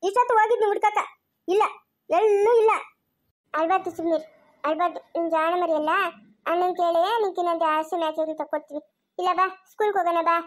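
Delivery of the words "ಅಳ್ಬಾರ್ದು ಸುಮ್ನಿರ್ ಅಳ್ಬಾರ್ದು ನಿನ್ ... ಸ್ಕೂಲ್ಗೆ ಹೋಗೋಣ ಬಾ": put-on low-key soothing of a child; tender, slightly lowered voice; gentle consoling. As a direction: coax a crying little one to settle. Adult consoles a crying child.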